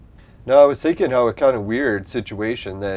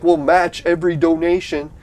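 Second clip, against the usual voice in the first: higher, louder mock-eager pledge; mocking Canada; 6 semitones higher, 5 dB louder than usual. Canada mocked as eager donor, higher louder voice. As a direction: chirp it out like a proud government. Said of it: "Canada's even like".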